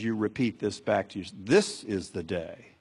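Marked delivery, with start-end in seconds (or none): 1.4-2.7 slow, weighted "This" opening the phrase; stress on THIS. Shown as a demonstration. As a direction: lean hard on the word This and take your time. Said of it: "you could even emphasize different words".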